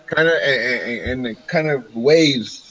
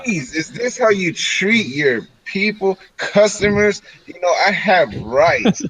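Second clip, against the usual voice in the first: higher, mock-indignant complaint; indignant protest; 5 semitones higher than usual. Customer being pushed out of the shop, indignant protest. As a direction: plead your rights, pitched up.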